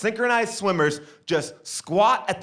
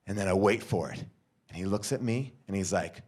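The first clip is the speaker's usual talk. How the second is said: ordinary talk, nothing marked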